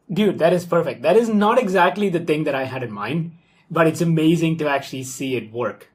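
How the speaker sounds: real amazed excitement, voice lifted and loud; excited delight. Real, not acted. Coder watching his app finally work, excited.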